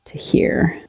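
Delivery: whisper. Real, not acted. Whispered aside while marking.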